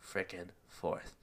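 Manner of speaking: breathless after running; out of breath. Real, not acted. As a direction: talk short of breath, winded. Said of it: "I'm out of breath".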